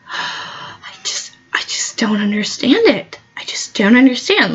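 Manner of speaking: breathless mock-wounded whisper; hammed-up whisper. Offended guest whispers her disbelief to the host. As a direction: whisper it like you're too hurt to speak. Acted quote to party host.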